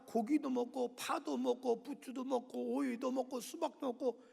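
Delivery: slow, whiny list of remembered foods; grumbling Israelites. Retold or imitated. Israelites whining to Moses about Egypt's food, slow grumble. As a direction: drag it out like a sulky complainer. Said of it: "그런데 또 불평 원망하는 거야".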